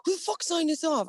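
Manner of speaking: high-pitched mock indignation; retold pissed off. Chief flipping through her binder, retold pissed off. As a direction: imitate an irate chief, pitched well up. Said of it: "He's all pissed off".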